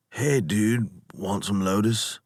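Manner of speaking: a lightly voiced slurring stoner; slurred stoned dude. Lotus eater offering lotus to the captain, lightly slurred stoner voice. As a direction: offer it lazily, like a mellow surfer. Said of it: "Their speech was slurred".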